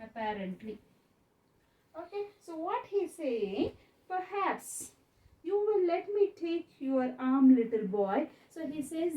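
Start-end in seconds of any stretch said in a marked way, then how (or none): 4.1-8.3 thin cracked voice. Acted. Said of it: "in a thin, cracked voice".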